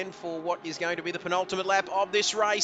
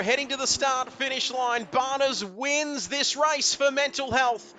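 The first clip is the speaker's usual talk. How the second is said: higher, faster, rising play-by-play for the final corners; excited finish call; 4 semitones higher than usual. Real, not acted. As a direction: call the last lap like it's on a knife edge. Race finish commentary.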